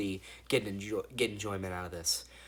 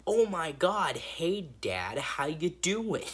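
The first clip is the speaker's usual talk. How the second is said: mock excited greeting; 7 semitones higher, 4 dB louder, much slower than usual. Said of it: "they're like".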